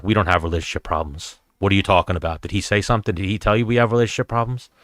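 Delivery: understated, humorless questioning; retold abrupt seriousness. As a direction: mimic someone suddenly not joking. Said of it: "she just stopped laughing".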